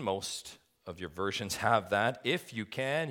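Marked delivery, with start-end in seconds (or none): 2.2-3.1 IF pushed higher, in a pointed echo; pointed, higher-pitched "If you can"; emphatic exclamation. Acted. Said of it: "you've got a big exclamation mark there".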